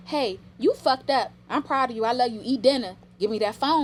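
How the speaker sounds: a mom laying down tough love, loud; tough love parent. Retold or imitated. Mother voicing tough love to her teen, loud and firm. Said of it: "we need that tough love".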